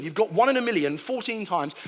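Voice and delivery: normal talking voice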